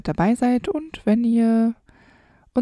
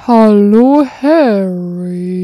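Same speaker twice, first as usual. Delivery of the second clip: big booming Hagrid greeting, much louder; 9 dB louder, much slower than usual. Acted. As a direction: boom it out like the giant gamekeeper. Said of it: "wie hat Hagrid nochmal gesprochen?".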